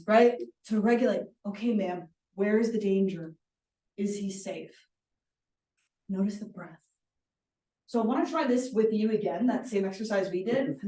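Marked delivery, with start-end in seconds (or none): 1.5-4.7 calm dispatcher. Acted. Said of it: "there's a reason they're trained".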